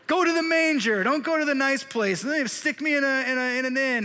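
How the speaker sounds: hammed-up high-pitched ordering about; mock bossy orders. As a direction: play an unborn baby giving urgent orders. Acts unborn Jesus giving orders.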